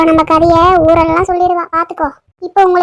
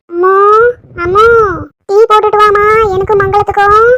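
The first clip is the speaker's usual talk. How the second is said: calling out; 4 semitones higher than usual. Acted. Calling to daughter-in-law inside.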